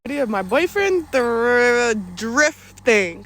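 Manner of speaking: talking with a retainer in; slightly lispy speech from a retainer; wearing a retainer. Real, not acted. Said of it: "I, uh, have my retainers in".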